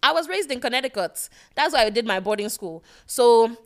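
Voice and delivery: a hint of prep-school pretty girl; Amanda. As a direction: lightly play a boarding-school girl from Connecticut. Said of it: "pretty girl voice sound like a white girl named Amanda".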